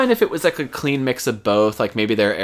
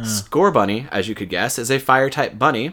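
scripted game-news delivery; news read. Real, not acted. Host reading Pokemon news to listeners, scripted news read. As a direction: read it out like a show segment.

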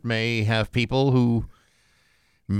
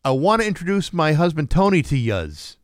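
slightly raised mock New England voice; thick New England accent; 4 semitones higher than usual. Cousin introduces new husband at a funeral, thick New England accent. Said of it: "and she says".

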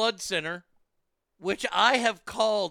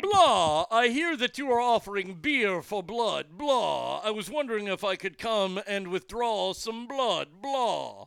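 hammy vampire on a crank call; Dracula voice; 3 semitones higher than usual. Acted. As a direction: ham up a vampire caller. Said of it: "The Dracula voice".

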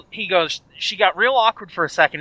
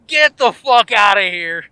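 laughing disbelief; 6 dB louder than usual. Retold or imitated. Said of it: "I started laughing and was like".

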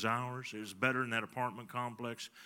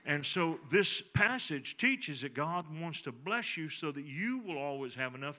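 building preaching; 3 semitones higher, 4 dB louder than usual. Acted. Preacher builds his point.

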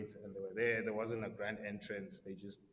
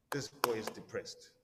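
whisper. Retold or imitated. Reacting to reading chapter three.

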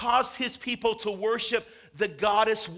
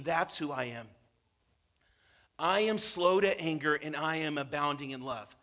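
tender, low; 4 semitones lower than usual. Acted. God telling Moses he is loving, in a low tender voice. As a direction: drop low and gentle.

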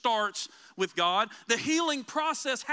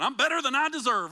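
louder stock reply, hammed up; mock cliché answer; 3 semitones higher, 6 dB louder, faster than usual. Pastor mimics the Dave Ramsey answer, hammed up. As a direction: toss out the stock Christian answer. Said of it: "that's the old Dave Ramsey one".

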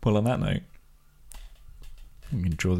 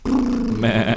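high, loud nasal-free bleat like a sheep; 4 dB louder than usual. Pretend.

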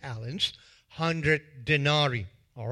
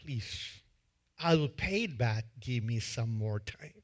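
soft, lower begging; a debtor being choked begs softly; pleading; 5 semitones lower, 7 dB quieter than usual. Acted. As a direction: beg quietly for more time. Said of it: "And the guy says".

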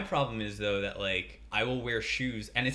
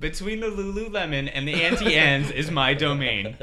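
goddess voice; 6 semitones higher, 8 dB louder than usual. Pretend. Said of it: "I'm the shoe store entity".

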